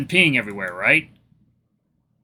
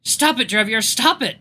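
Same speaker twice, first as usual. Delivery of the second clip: pleading shout; 7 semitones higher than usual. Acted. Nary wrestling the knife from Draviar, pleading shout. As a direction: shout him down, begging.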